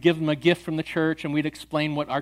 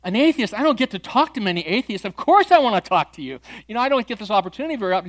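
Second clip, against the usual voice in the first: higher, keen, quick-tempo welcome; eager delight; 5 semitones higher than usual. Retold or imitated. Pastor thrilled to meet an atheist, eager welcome. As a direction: jump at the chance to talk.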